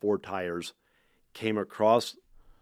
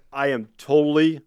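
a mock outburst of disbelief, a bit louder; shocked and mad; 5 semitones higher, 7 dB louder than usual. Shop owner fuming after the car sells at once, mock outraged. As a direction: retell his angry shock, half-playing it. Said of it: "he was shocked. He was mad".

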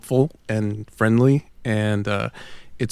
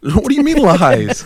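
laughing; 7 semitones higher, 8 dB louder than usual. Real, not acted. Laughing protest.

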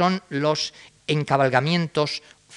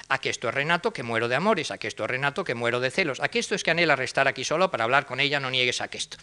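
lilting twelve-syllable verse read aloud; sing-song dodecasyllables; verse recital; much faster than usual. Shown as a demonstration. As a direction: recite it showing the strange music. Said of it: "Fíjense qué musiquilla tan extraña".

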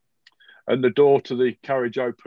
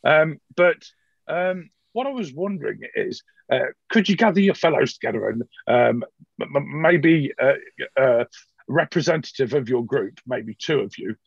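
Van Gebel; faster than usual. Acted. GM voices Van Gebel again.

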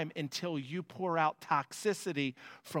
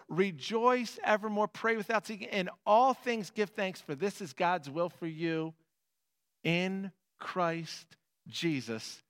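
preaching at full force; 2 semitones higher than usual. Acted.

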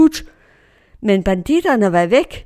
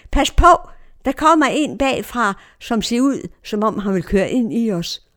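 retold warning shout; 2 semitones higher than usual. Passenger warns the driver of a car behind, retold shout. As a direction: call out an urgent warning, easing off at the end. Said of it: "Så råber jeg til chaufføren".

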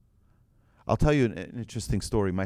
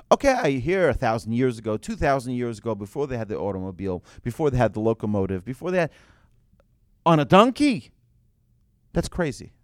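incredulous scoff; 3 semitones higher, 4 dB louder than usual. Acted. Skeptic voice scoffs at donkey.

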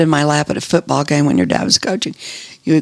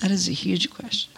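whisper; 2 semitones higher, 11 dB quieter than usual. Real, not acted. Overwhelmed by the question.

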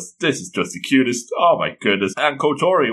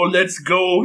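higher, eager mock cheer; playful retold excitement; excited child, imitated; 6 semitones higher than usual. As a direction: lightly act a child raring to go. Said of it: "She's looking so excited".

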